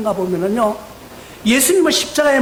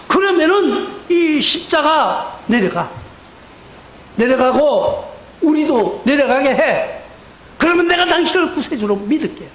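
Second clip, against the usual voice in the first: mocking taunt; 2 semitones higher than usual. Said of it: "비방하기 시작합니다".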